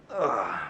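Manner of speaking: exasperated falling groan. Real, not acted. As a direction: let out a loud ugh, sliding down in pitch. Weary groan ending the update.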